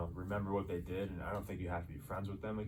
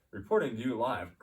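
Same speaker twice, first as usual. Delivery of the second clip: newscaster voice; 3 semitones higher, 6 dB louder than usual. Retold or imitated. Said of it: "he's in the newscaster voice".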